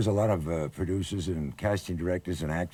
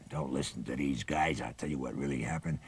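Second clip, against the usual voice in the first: low, soft undertone, much softer; sotto voce; 6 semitones lower, 9 dB quieter than usual. Retold or imitated. Tracy murmuring to the rookie on set, softly. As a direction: murmur it aside to the other actor. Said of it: "sotto voce'd me".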